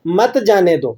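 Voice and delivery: "مت جانے دو" as one falling phrase; resume from مت. Shown as a demonstration. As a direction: join مت tightly to جانے دو. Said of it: "پھر آگے سے اپنی بات کو کنٹینیو".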